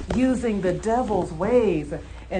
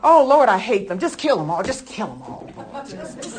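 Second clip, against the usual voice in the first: hammed-up vengeful prayer; 5 dB louder than usual. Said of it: "She's even got the actress going on".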